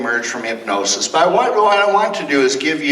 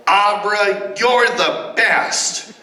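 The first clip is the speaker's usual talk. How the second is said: high, slow cheering call; excited yell; 6 semitones higher, much slower than usual. Shown as a demonstration. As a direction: cheer her name out eagerly. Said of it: "jump up and yell".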